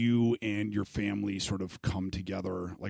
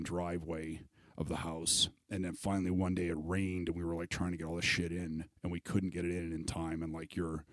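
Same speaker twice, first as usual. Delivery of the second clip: tender teary memory; 5 semitones lower than usual. Retold or imitated. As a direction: gently remind her, holding back tears. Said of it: "I was like".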